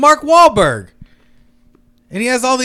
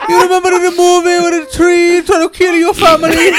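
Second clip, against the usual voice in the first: bad Hispanic accent; 6 semitones higher than usual. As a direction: wail it in a terrible Hispanic accent. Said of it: "the worst Hispanic accent".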